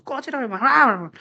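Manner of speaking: imitating a friend's angry swearing; muted, half-voiced mock outburst; mock angry cursing. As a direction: curse like an irritated friend, held back. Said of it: "막 화나면 막 욕도 하고".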